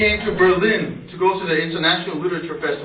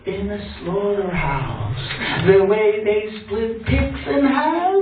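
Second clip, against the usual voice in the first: theatrical threat to a lover; menacing revenge poem; slower than usual. Acted. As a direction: draw out the threats in dramatic spoken-word style.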